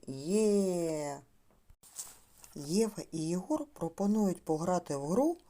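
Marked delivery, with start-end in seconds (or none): 0.1-1.2 put-on drawn-out «є» for children to repeat; model sound «є». Shown as a demonstration. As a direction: hold the vowel of «є» long. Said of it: "спробуйте ви повторити". (протяжне «є» як зразок)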